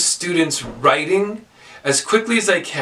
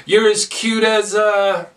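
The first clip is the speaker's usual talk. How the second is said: slow and higher, hanging on A; fill-in prompt; 5 semitones higher, slower than usual. Shown as a demonstration. Teacher waiting for bunny or kitty, fill-in prompt. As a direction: leave A dangling for them to complete. Teacher cueing class to finish phrase.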